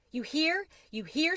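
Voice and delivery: a tiny mouse bursting with joy; squeaky mouse. A narrator's reading. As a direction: mouse squeaking to the cricket, thrilled. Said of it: "squeaked Tucker Mouse".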